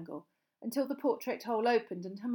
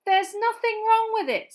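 slightly shaking voice; 13 dB louder than usual. A narrator's reading. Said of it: "his voice shaking slightly".

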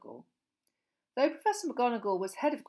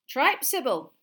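scoffing; 6 semitones higher, 10 dB louder, slower than usual. A narrator's reading. McGonagall scoffs at Trelawney.

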